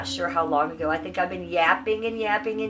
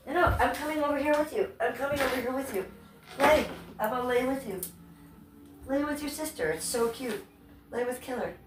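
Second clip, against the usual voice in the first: higher, sweet coaxing of a pet; sweet talk to pets; 6 semitones higher than usual. Real, not acted. Streamer coaxing her pets to lie with her, sweet talk.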